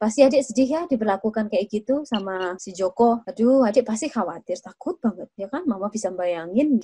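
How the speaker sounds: soft, tender sympathy; empathetic. Shown as a demonstration. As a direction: feel the child's hurt with them gently. (penuh empati dan lembut)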